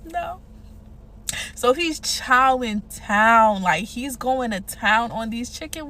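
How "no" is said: hushed, disbelieving whisper; incredulous whisper. Real, not acted. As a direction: whisper it like you can't believe it. Incredulous aside about the date.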